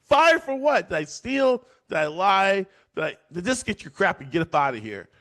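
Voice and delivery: high, loud disbelief; high mock indignation at being fired; shocked outrage. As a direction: protest in shock. Greg protests being fired.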